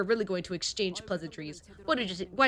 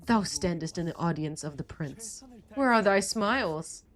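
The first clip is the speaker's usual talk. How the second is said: haughty prince. Acted. Prince to the group, lightly haughty. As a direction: talk down to them as royalty.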